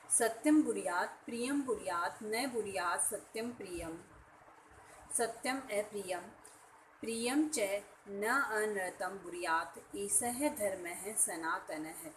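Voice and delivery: measured Sanskrit verse recital; shloka recitation. Acted. Teacher reciting the shloka to the class, measured. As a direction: recite the verse line by line, unhurried at the close.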